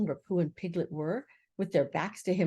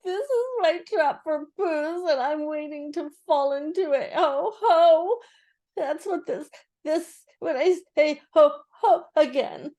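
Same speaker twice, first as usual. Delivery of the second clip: high, squeaky, flustered little voice; high and louder on the exclamations; 9 semitones higher, 6 dB louder than usual. A narrator's reading. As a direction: squeak it out, completely unsettled. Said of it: "he said very quickly and squeakily".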